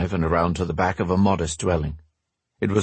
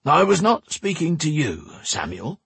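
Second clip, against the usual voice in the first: put-on stern old man; 8 semitones higher than usual. A narrator's reading. Max scolding Bane.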